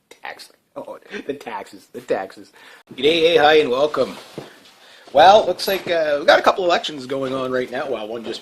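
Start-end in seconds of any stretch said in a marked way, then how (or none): 0.1-2.5 whispered, slow sorrowful moan; mock lament. Mocking the new taxes, in a soft mock moan. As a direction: mourn the taxes in a hushed voice.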